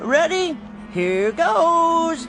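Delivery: excited shout. Acted. Throwing the football hard.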